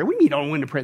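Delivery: low-pitched, dismissive disbelief; unimpressed scoffing question; incredulous echo. Real, not acted. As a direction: throw the excuse back, voice dropped. Preacher echoes the excuse back.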